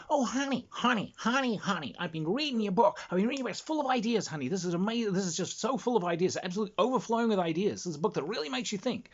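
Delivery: high, harsh New Jersey smoker impression; hammed-up New Jersey chain-smoking agent; New Jersey literary agent. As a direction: gush in a high-pitched New Jersey accent. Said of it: "it's a New Jersey accent".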